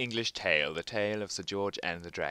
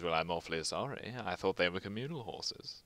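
politely apologetic dragon; 4 semitones lower, 7 dB quieter than usual. Acted. Dragon apologizes about horses.

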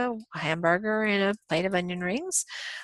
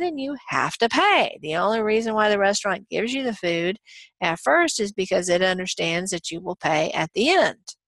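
exasperated waiter. Retold or imitated. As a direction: scold a guest who won't pay.

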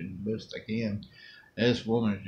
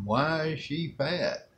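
imitating child; 6 semitones higher, slower than usual. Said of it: "he just asked a legit question".

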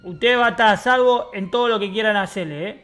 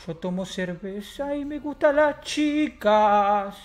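very slow put-on voice; slow, stretched catchphrase; slow character catchphrase; much slower than usual. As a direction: drawl the slogan in character. Catchphrase again.

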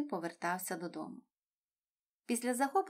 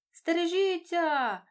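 much higher, louder, slow warning yell; warning shout; 9 semitones higher, 8 dB louder, slower than usual. A narrator's reading. Dori shouts a warning as the net comes. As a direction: shout to save everyone from the net. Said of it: "закричала Дорі".

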